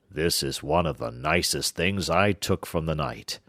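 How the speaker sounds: a hint of gloating giant. Giant boasts about the stolen harp. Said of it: "said the giant".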